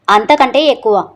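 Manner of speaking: put-on wife shouting at her husband over the boy; loud shout. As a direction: she shouts the answer at him. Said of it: "అమృత గట్టిగా అరిచేసరికి".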